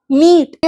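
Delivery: मीट with the ई held long, meeeet; long vowel demo, मीट drawn out; stretched long vowel. Shown as a demonstration. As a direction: drag out the ई in मीट. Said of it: "थोड़ा खींच के बोला".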